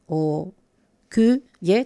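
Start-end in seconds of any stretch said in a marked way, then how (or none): 1.1-1.4 "Ku" alone, higher and clearly set apart; isolated syllable. Shown as a demonstration. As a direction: pull "Ku" out of the word to show it. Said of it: "Con la misma el sonido". ("Ku" aislado, más agudo)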